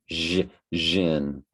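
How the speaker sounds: jin broken out slowly as zh, zhin; syllable practice. Shown as a demonstration. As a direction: isolate the zh, then say jin as zhun. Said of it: "it's pronounced derision".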